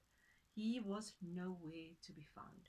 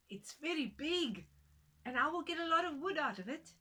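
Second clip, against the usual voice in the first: higher and louder, eager and pleased; a touch of excited woodcutter; eager woman; 7 semitones higher, 8 dB louder than usual. Acted. Woman sizing up the tree, higher and eager. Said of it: "she said".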